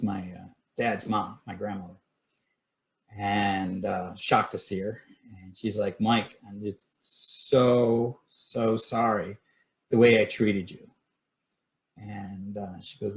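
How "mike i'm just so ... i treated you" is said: drawn-out, heartfelt retold apology; imitated remorseful apology. Grandmother begs grandson's pardon on the porch, retold slow apology. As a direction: draw out each "so" as if truly sorry.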